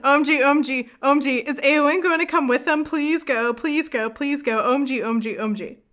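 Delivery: rapid-fire fangirl pleading, reliving the notes; gushing excitement. Retold or imitated. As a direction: gush through it in a pleading rush. Gushing over her written notes.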